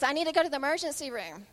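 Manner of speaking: lightly voiced urgent child; retold son's request. Injured son telling his mom, mildly urgent. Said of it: "And he says".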